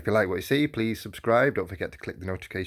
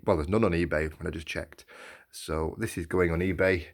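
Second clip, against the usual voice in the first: hoarse from a sore throat; scratchy, sore-throated voice; 3 semitones lower than usual. Real, not acted. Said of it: "Apologies for my voice. Got a sore throat".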